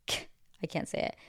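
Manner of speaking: giggling through the words; laughing. Real, not acted. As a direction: breaks up laughing at the slip. Giggles at misspeaking the name.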